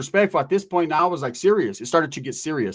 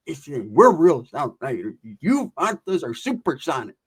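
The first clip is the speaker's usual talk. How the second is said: mock LA gangster; slower than usual. LA gangsters taunting.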